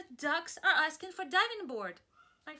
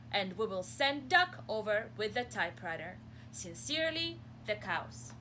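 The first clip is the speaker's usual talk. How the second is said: mild formal letter; 3 dB louder than usual. Acted. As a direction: read it like a polite deal. Cows' letter read aloud.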